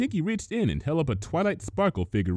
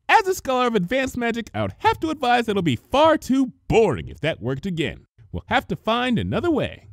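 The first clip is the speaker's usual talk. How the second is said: grave; 13 semitones higher, 4 dB louder than usual. Acted. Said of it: "shook her head gravely".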